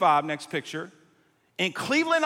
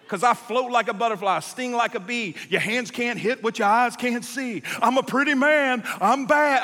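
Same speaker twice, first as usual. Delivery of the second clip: Ali boast; 2 semitones higher than usual. Retold or imitated. Ali's boasts, rising to shouts.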